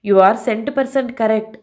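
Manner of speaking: very slow, each word drawn out; emphatic agreement. Acted. Kiran to the DSP, slow emphatic agreement. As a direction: spell it out slowly to agree.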